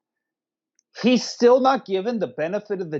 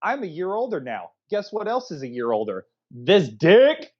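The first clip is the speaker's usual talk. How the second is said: put-on cocky kid voice. Voicing Kevin boasting.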